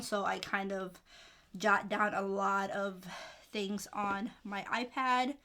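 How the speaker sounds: slow, out of breath between words; short of breath, pausing to breathe. Real, not acted. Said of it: "Sorry if I sound like I'm getting out of breath".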